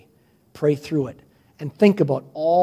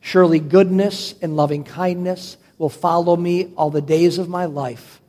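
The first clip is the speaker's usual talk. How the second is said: slow reading. Real, not acted. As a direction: read it slowly for a congregation to follow. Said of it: "Let's read it slowly".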